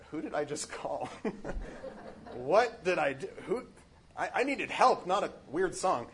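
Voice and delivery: laughing, puzzled inner voice; half-laughing what did I do; amused bewilderment. Retold or imitated. Frodo wonders about his strange rescuer, with a laugh. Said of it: "Frodo must be thinking".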